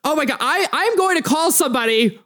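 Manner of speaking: high, indignant outburst; exasperated golfer. Acted. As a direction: play a fed-up club member threatening to complain. Frustrated golfer threatens to complain.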